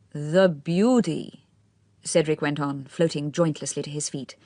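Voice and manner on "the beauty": every syllable emphasised, slow and gushing; spoken through a smile, savouring each word; affected young man. A narrator's reading. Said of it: "every syllable received rather more emphasis".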